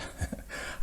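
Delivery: short, soft breathy laugh; a small voiceless laugh while hesitating; little apologetic huff of laughter; nervous chuckle. Acted.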